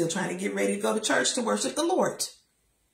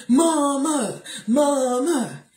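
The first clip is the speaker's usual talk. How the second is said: put-on little boy calling; 4 semitones higher, 4 dB louder, much slower than usual. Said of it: "Ricky's like".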